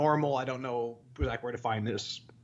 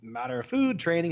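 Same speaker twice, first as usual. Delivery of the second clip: much higher, shocked gym guy voice; mock shocked gym guy; 11 semitones higher than usual. Store guy shocked he uses no supplements, high voice. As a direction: squeak it like a stunned store clerk. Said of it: "He's like".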